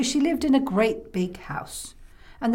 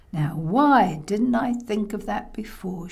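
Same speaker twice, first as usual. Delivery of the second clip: musing grandma. Acted. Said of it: "she said".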